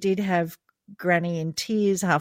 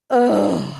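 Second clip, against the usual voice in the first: imitated groan; 7 dB louder than usual. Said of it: "Grandma rolls her eyes and goes".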